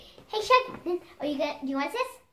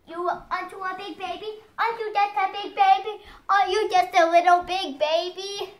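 put-on a touch of cooing baby talk to the dog; 4 semitones higher than usual. Girl cooing baby talk at her dog, mildly. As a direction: lightly coo at the puppy. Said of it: "Do not talk like that".

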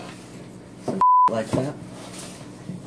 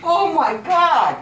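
shocked; 3 semitones higher, 5 dB louder, slower than usual. Real, not acted. Pregnancy reveal, shocked.

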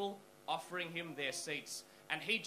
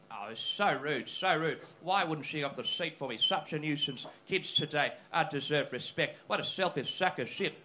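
put-on muttering old man; 3 semitones lower, 5 dB louder than usual. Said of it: "just muttering to himself".

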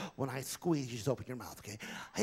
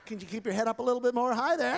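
ventriloquist puppet voice; 7 semitones higher, faster than usual. Acted. Ventriloquist voicing volunteer.

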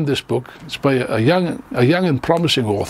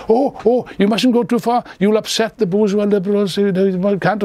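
mock timid liberal; 4 semitones higher than usual. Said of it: "this argument, which Lenin regards as, uh, treated with contempt".

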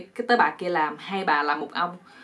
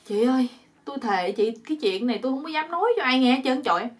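lightly acted begging, rising higher; pleading oath; 5 semitones higher, 3 dB louder than usual. Captive promising two women his silence, acted pleading. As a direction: swear it as if begging for release. Bound man swears secrecy.

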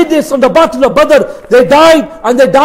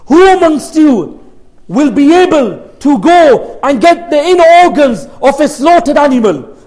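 challenging. Retold or imitated. Abu Jahl dares the Quraysh leaders, challenging. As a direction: voice a bold dare to the group.

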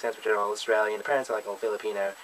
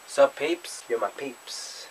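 mock cool greeting; much slower than usual. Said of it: "I never say that out loud".

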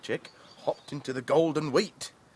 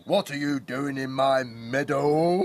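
bull voice; 4 dB louder than usual. Acted. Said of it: "bellowed a bull".

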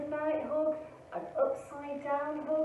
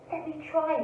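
eager, a touch higher; whooping; 5 semitones higher, 3 dB louder, faster than usual. Acted. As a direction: say it with glee. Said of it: "whooped Douglas".

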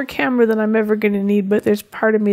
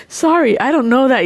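imitating cheeky sarcasm; 3 semitones higher than usual. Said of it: "he sounds so sarcastic and cheeky".

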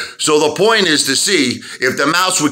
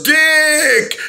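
lightly voiced snooty man, higher; mock snooty guy; 9 semitones higher than usual. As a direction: toss off the nickname like a posh stranger. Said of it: "He goes".

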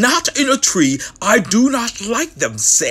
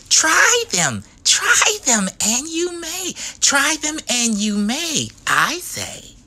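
higher, urging; pleading Sam; 6 semitones higher than usual. Acted. Sam urging his friend to try them. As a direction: beg him to just try.

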